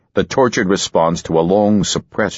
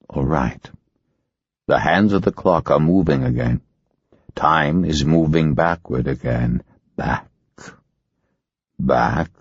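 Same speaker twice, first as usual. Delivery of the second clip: hypnotic regression; 2 semitones lower than usual. Acted. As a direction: draw her back in time.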